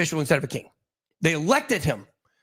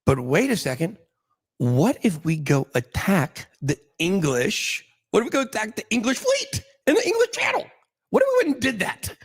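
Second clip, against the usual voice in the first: mock scheming excitement; 4 semitones higher than usual. King hatches war scheme.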